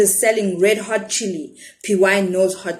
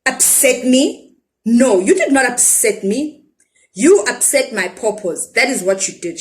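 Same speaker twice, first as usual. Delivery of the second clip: angry shout; 3 semitones higher, 3 dB louder than usual. Acted. Seller scolding the boy about her pawpaws, mock-angry. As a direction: throw his words back at him in anger. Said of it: "she shouts".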